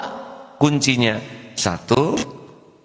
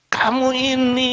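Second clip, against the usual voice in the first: sharp, much higher scolding snap; mock angry scolding. Angry teacher scolding a pupil, mock high scolding. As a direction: play the hot-headed scolder, hammed-up. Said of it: "cirinya marah itu nggak jelas".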